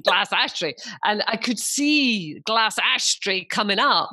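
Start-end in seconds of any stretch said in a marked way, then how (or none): 0.0-0.8 Scottish accent. Shown as a demonstration. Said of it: "But when you're Scottish".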